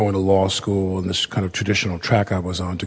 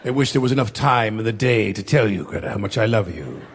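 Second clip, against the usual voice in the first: mock soap opera lover. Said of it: "Every day you're like".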